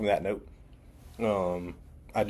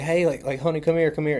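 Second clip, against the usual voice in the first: higher-pitched imitation of a girlfriend calling; calling someone over; 7 semitones higher than usual. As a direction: act out beckoning a boyfriend over. Girlfriend calling her boyfriend over.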